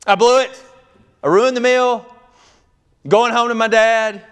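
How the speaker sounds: high, loud hammed-up wailing; mock wifely meltdown. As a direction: wail like a new wife giving up. Acts out wife giving up.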